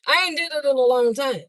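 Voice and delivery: repeated with a laugh. Real, not acted. Vlogger teasing viewers about revoked licenses, laughing. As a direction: chuckle through the line.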